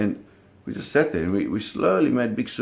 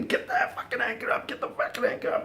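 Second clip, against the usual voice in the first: retold scream; 13 semitones higher, 4 dB quieter than usual. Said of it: "he's screaming".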